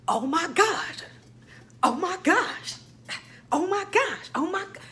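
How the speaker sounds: giddy disbelief, rising each time; freaking out. Retold or imitated. Seeing MSNBC quote her, excited high gasps. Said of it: "while I was freaking out".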